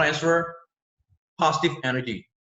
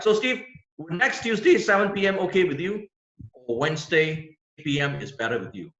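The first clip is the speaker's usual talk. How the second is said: upbeat choice close; 3 semitones higher than usual. Shown as a demonstration. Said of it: "Give them the choice".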